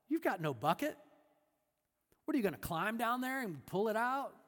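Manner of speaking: lightly voiced woman at the well, cynical and mocking; sarcastic woman. The woman mocks Jesus at the well, sarcastic. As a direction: scoff at him, half amused. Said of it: "she moves from cynical to sarcastic".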